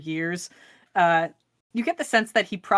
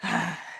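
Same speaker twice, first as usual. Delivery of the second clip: dwarf's sigh; 6 dB quieter than usual. Acted. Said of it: "you just see this dwarf goes".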